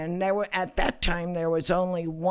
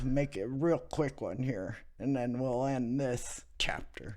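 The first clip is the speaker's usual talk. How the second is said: whispered, softer aside; 4 semitones lower, 7 dB quieter than usual. Real, not acted. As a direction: drop to a whisper to close. Winding down the story aside.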